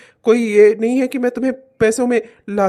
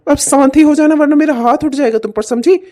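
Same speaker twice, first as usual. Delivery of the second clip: louder, menacing warning; angry threat; 3 semitones higher, 5 dB louder than usual. Acted. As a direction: warn her one last time. Husband threatens to hit wife. (पत्नी को गुस्से में चेतावनी)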